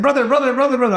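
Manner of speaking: man calling after the speaker as he passes. Retold or imitated. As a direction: call out to catch his attention. Someone calling after him.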